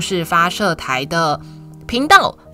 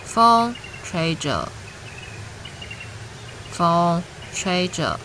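drawn out, slow and soft; slow and hushed; 4 dB quieter, much slower than usual. Acted. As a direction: let the wind line linger slowly. Slow wind line at story climax.

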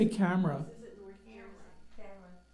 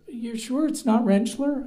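higher, slower mock disbelief; imitated arguing patient; 7 semitones higher, 5 dB louder, slower than usual. Patient arguing with doctor over his name, mock doubtful. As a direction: lightly mimic a patient disputing the name. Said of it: "they're arguing with my name".

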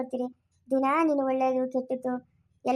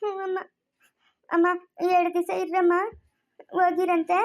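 higher, weepy voice; tearful pleading; 3 semitones higher than usual. Acted. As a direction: beg mother to stay, close to tears. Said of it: "ಅಳ್ಬೇಡ ನೀನು". (ಅಳುತ್ತಾ ಬೇಡಿಕೊಳ್ಳುವ ದನಿಯಲ್ಲಿ)

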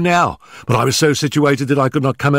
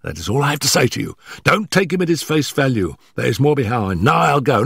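high, hurried, stammering nervous man; gasping, out of breath; 9 semitones higher than usual. Acted. Nervous manager warning Holmes before his employer arrives, gasping and hurried. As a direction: blurt it out in short frightened bursts. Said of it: "our visitor gasped".

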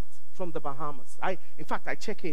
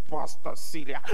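put-on saying the name in an African accent; surprised wife calling Pastor Celia, African accent. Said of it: "in an African accent".

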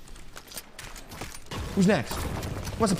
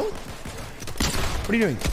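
whispered; 4 semitones higher, 3 dB quieter, much slower than usual. Pretend. Mock creepy aside.

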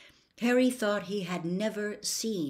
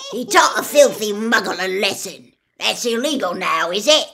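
loud, scornful defiance; sneering; 3 semitones higher, 11 dB louder than usual. A narrator's reading. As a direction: sneer at the law. Gaunt sneers at the law.

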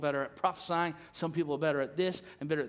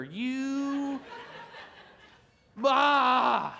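mock angry rant; 6 semitones higher, much slower than usual. Pastor shows how he could have scolded Glenn, hammed-up fury. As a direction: pretend to lose it at a friend. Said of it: "you know what I could have done?".

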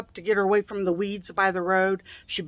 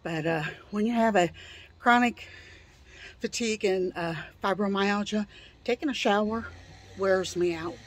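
out of breath; 5 dB quieter than usual. Real, not acted. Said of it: "Sorry, I'm so out of breath".

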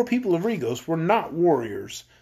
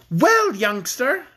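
drawn-out, higher-pitched cheerful greeting; 6 semitones higher, 4 dB louder, much slower than usual. A narrator's reading. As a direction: greet the captive brightly, stretching the words. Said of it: "said she in a cheerful tone".

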